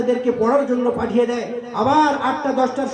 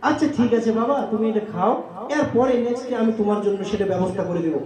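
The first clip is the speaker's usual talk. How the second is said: soft, lower, with a smile; gentle smiling mother; 3 semitones lower, 3 dB quieter than usual. Pretend. Mother calming her scolding son, softly smiling. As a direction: soothe the son quietly, smiling. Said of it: "মুচকি হেসে, হাসি দিয়ে বলবে".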